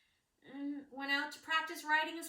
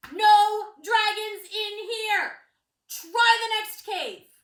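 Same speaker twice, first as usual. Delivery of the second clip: sign read; 9 semitones higher, 14 dB louder, much slower than usual. Acted. Reading a cheeky sign.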